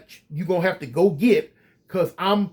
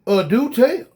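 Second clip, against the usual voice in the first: gasp, then a high, amused "do tell"; sarcastic, pretend-thrilled; mock delight; 6 semitones higher, slower than usual. Mock reaction to guard's challenge.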